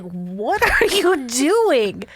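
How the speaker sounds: drawn-out, incredulous question; mock disbelief. Friend retells her baffled reaction.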